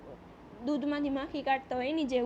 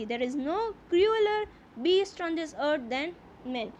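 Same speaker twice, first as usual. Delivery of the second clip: slow, deliberate reading aloud of the English text; slow story reading; 4 dB louder, much slower than usual. A narrator's reading. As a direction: read each phrase slowly, as a teacher before translating. (ધીમે ધીમે વાર્તાનું વાંચન)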